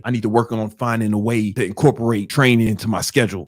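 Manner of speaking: composed, matter-of-fact resolve; determined. Retold or imitated. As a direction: state it like a plan. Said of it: "sound like a G who's ready".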